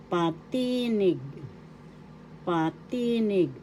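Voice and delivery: teacher slowly modelling "Patinig", accent on TI; second-syllable accent. Shown as a demonstration. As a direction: stress the middle of "Patinig". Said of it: "The accent is in the second syllable".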